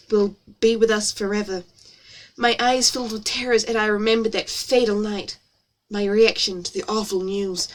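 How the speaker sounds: story read in an exaggerated American accent. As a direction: narrate with put-on American vowels. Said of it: "my lovely American accent".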